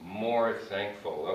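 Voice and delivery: slow, careful model phrase. Shown as a demonstration. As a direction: say it slowly, for students to copy. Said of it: "if I say".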